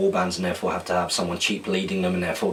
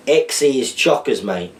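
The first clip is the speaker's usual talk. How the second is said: put-on Australian accent; 4 semitones higher, 3 dB louder than usual. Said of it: "decipher these Australian slang terms slash words in an accent".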